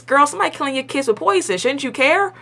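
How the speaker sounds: a fast, high-pitched talking-to; exasperated girl talk. Retold or imitated. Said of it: "I'm like".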